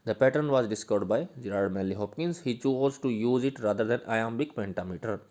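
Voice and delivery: slow dictation. Shown as a demonstration. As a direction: dictate it so students can write it down. Dictating notes slowly.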